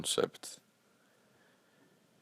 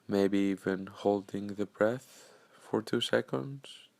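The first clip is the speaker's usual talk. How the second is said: calm, unhurried meditation guide with long pauses; measured, soothing guidance, leaving space after each phrase; guided meditation. Acted. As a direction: gently lead listeners into breathing and stillness.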